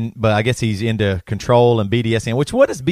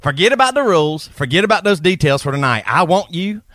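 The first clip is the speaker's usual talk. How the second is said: higher hammed-up Southern redneck voice; redneck Southern accent; 4 semitones higher than usual. Redneck Travis seducing Anastasia, in a thick Southern accent. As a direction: lay on the country charm, thick and silly. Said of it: "one last one".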